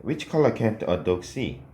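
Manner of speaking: slow, every word spaced; slow model sentence. Shown as a demonstration. Teacher reading the answer for students to write. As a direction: dictate the sentence slowly. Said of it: "이렇게 써주시면".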